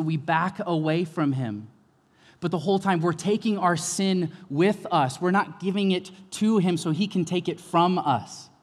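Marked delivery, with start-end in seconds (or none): none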